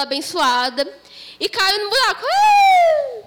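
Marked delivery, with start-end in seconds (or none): 2.2-3.2 high yelp of falling; falling scream. Acted. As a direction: cry out as you fall. Falls into the hole.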